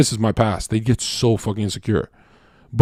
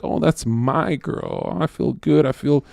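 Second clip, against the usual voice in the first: slow, softer affectionate murmur; contented loving boyfriend sigh; tender; 4 dB quieter, slower than usual. Retold or imitated. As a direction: savor it lovingly. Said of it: "someone that's like".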